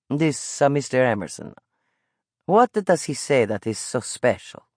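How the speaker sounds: put-on old street vendor with an Italian lilt, calling out. Old vendor coaxing the boy toward his pastry cart, Italian accent. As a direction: coax the boy over like a friendly Italian peddler.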